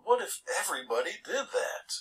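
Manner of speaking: official calling out. Retold or imitated. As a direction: call it out like an official waving his arms. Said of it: "waved his arms and said".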